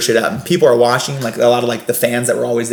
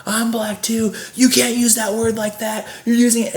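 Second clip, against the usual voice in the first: high, sing-song confronting voice; Gary confronting; 10 semitones higher, 3 dB quieter than usual. Retold or imitated. Gary confronts the guest about the word: high sing-song voice. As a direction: set him straight, high. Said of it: "he goes".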